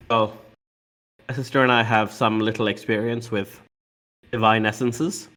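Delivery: dry, understated delivery. Acted. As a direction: say it drily, a touch of "no biggie". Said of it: "in, like, this dry tone".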